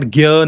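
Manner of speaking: Gya with plain g and y; Gya, g gliding into ya; rejected pronunciation. Shown as a demonstration. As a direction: say Gya with no nasal. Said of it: "So it is not".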